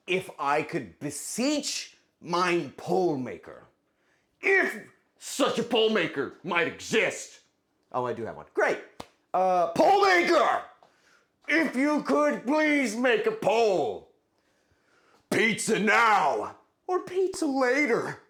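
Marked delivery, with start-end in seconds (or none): 0.1-7.4 slow, grand olde-English beseeching; hammed-up theatrical request; mock formal plea. Mock formal plea to poll maker. 9.3-18.2 high, loud, slow proclamation; hammed-up royal decree; grand summons. Grand summons to poll maker.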